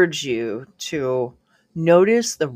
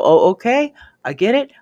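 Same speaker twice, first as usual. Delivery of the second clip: realizing aha; 6 semitones higher, 5 dB louder than usual. Shown as a demonstration.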